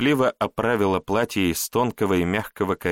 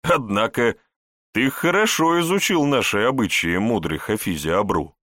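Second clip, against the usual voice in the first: wry chuckle; 3 semitones higher than usual. Acted. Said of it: "хмыкнул Егор".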